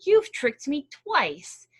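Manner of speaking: loud, slow angry demand; growling bear. Acted. Bear demanding his due from Hare, loud slow growl. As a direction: lean on every word like a threat. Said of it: "Bear growled".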